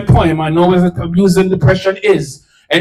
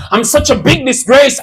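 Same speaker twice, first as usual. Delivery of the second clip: retold scream; 5 semitones higher than usual. Distraught woman breaking her silence to a friend, high outcry. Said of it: "screaming out".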